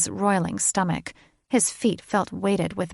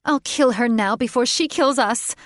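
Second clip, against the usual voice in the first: higher, shrill-voiced monster girl in a fury; bird woman Catherine; 5 semitones higher, 5 dB louder than usual. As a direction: spit it out as a half-bird madwoman. Catherine threatens.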